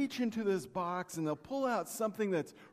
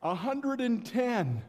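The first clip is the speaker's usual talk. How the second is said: haggling buyer; 7 semitones higher, 6 dB louder, slower than usual. Retold or imitated.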